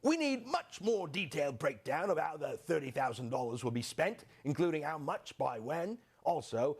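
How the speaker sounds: mock British official reading a letter; prim British letter voice, lightly done; British accent. Host reading the British request, mock British accent. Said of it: "Forget my accent".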